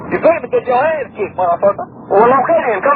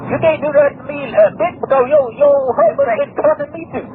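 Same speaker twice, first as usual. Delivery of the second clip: indignant; 6 semitones higher than usual. Real, not acted. Phone quarrel, indignant.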